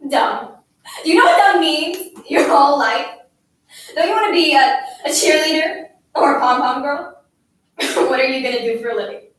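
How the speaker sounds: loud, hectoring tirade; angry scolding. A narrator's reading. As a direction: berate the child, pushing out each question. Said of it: "I scolded".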